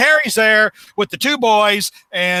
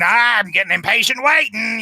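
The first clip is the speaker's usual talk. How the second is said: Goblin voice; 3 semitones higher than usual. Retold or imitated. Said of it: "the Goblin is saying".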